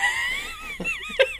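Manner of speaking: high burst of giggling; a squealing laugh breaking out; stifled giggles. Real, not acted. Giggling fit while recording.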